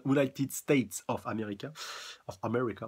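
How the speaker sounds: English words in a French accent. Real, not acted. Manga reader explaining the attack's name, French-accented English. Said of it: "excusez mon accent".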